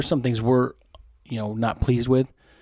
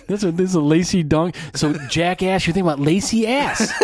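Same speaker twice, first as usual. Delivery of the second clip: high, loud, cracking up mid-sentence; laughing excitedly; 7 semitones higher, 4 dB louder than usual. Real, not acted. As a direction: talk through real laughter at your own joke. Cracking up at own lacy-ass pun.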